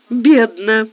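ordinary delivery, nothing marked

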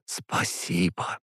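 soft, slow voiceless whisper; mouthed whisper. A narrator's reading. Sister thanking her brother silently, slow whisper. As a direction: whisper it slowly, almost only with the lips. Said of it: "одними губами прошептала".

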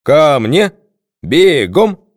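booming parade-ground shout, high and loud; thunderous command bark. A narrator's reading. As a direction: bark the orders like a colonel. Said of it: "громовым командным голосом рявкнул".

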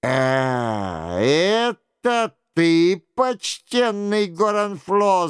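ordinary delivery

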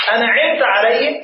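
أنعمت drawn out slowly as if asking; question intonation. Shown as a demonstration. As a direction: say أنعمت عليه as a question, rising at the end. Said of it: "كأنها همزة استفهام". (نطق أنعمت عليه بنبرة استفهام)

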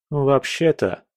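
mild mocking amusement; a small smug correction; smirking. Young man smirks at the prince, lightly mocking. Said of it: "парень усмехнулся".

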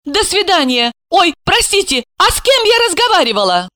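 lightly voiced young woman, flustered; high girlish voice. Young woman on the phone, puzzled and apologetic. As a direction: pitch it up like a confused young woman.

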